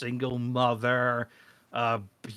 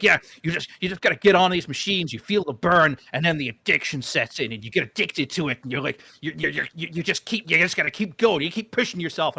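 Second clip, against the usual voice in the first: lightly voiced pep talk, raised and louder; mock a pushy trainer a little; imitated gym guy; 4 semitones higher, 5 dB louder than usual. Gym guy urging a newcomer onto the machines, mock pep talk.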